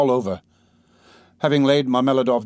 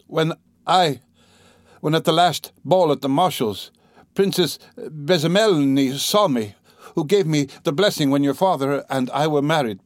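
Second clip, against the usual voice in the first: high, strained, breaking off to cough; speaking with effort; 4 semitones higher than usual. Acted. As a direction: push through the coughing fit. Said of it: "she articulated with effort".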